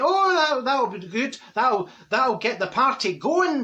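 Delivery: high, swooping keenness; mock enthusiasm. Marjorie humours friend about the CD, mock-keen and high. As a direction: talk up the idea, pitched well up.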